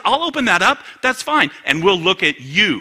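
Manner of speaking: loud, high answer from God; forceful rebuttal. Acted. God answering the excuse-maker, loud and challenging.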